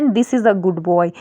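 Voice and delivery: slow, careful dictation of the sentence; slow example read. Shown as a demonstration. Teacher reads the example sentence to students, slowly. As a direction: spell it out word by word for learners. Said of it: "जैसे एक sentence हम बोलते हैं".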